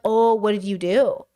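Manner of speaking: a touch of mock-stern pet owner, rising oh; scolding a pet. Owner catching a naughty cat: mild mock scolding. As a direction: lightly scold a guilty pet. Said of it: "That's what he sounds like to me".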